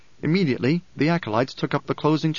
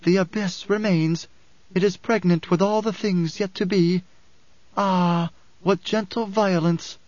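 slow, raised-pitch solemn musing; lowered oracular voice; 5 semitones higher than usual. A narrator's reading. Alia to the pilgrims about the abyss, voice lowered. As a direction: intone it slowly, a little easing from proclamation. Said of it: "Her voice lowered".

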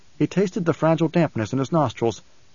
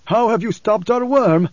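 high-pitched, demanding preacher; ominous recognition; 8 semitones higher, 4 dB louder than usual. A narrator's reading. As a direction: challenge him with dawning recognition. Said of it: "an ominous tone of recognition in the preacher's voice".

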